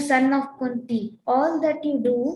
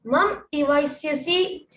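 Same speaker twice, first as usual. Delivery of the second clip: brisk, louder chanted verse reading; verse recitation; 4 dB louder than usual. Acted. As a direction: read the Sanskrit verse out briskly. Reads Sanskrit verse aloud.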